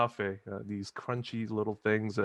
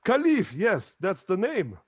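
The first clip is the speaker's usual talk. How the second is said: eager confirmation; 10 semitones higher, 7 dB louder than usual. Acted. Rahman confirms name eagerly.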